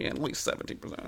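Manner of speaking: whispered under breath; muttered sheepish concession. Retold or imitated. Muttered hypothetical reply.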